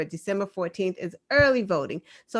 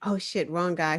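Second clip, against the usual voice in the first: laughing; 4 semitones lower, 4 dB quieter than usual. Real, not acted.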